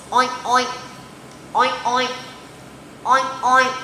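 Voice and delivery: soft nasal oinking like a pig; gentle pig sounds for kids; pig oinks. Shown as a demonstration. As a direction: oink like a little pig. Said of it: "So it goes".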